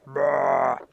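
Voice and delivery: low, dull "bruh" noise; stuffy-interview noise. Retold or imitated. Host mocking stuffy interviews to guests, low dull noise. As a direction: drop low into a mock-bored grunt. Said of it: "because it's so, like".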